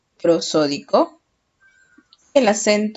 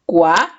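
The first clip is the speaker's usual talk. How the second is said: "Cuadro" broken as cua, pause, dro; a strong rising "cua", then the rest of "Cuadro"; syllable by syllable; 3 semitones lower, 5 dB louder than usual. Shown as a demonstration. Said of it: "Separamos en sílabas". ("Cuadro" separado en sílabas, cua... dro)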